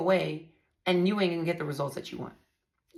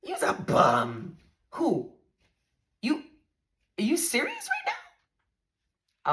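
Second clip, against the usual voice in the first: slow, half-laughing you's a bum; stunned laughing repeat; laughing disbelief; 6 semitones higher than usual. Real, not acted.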